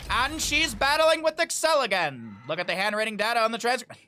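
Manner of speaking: lightly voiced old-time radio narrator. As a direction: ham it up like a vintage radio host. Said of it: "in the old-time radio voice".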